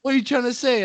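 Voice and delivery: high, indignant comeback; put-on touchy challenge; mock offence. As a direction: play the affronted victim, pitched high. Acting out offended reply to insult.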